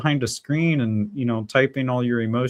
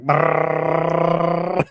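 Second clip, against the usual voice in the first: slow rumbling brrrr; imitated engine brrr; 5 semitones higher, 4 dB louder than usual. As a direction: rev it like a two-stroke. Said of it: "Did you guys hear that? It's like".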